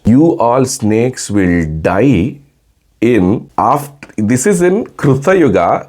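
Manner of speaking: put-on a mother furiously cursing her disobedient kids; angry mother. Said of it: "And the mother gets angry".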